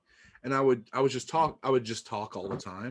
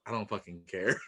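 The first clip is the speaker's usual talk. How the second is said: dad's quote laughed through; 3 semitones lower, 6 dB quieter than usual. Retold or imitated. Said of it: "my dad was like".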